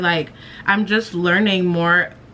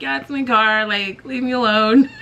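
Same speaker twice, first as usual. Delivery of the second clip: higher, mock-defensive through the laughs; laughing off embarrassment; 5 semitones higher than usual. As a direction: imitate brushing off teasing friends. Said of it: "laughing the pain away".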